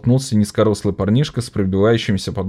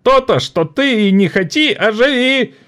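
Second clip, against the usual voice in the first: higher, biting comeback; angry retort; 3 dB louder than usual. A narrator's reading. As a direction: snap back at the boss. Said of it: "зло отозвался". (зло)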